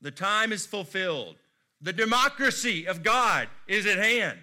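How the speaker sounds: high, loud mock prophet proclaiming. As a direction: boom it out like a parody of an ancient prophet. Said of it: "said no biblical prophet ever".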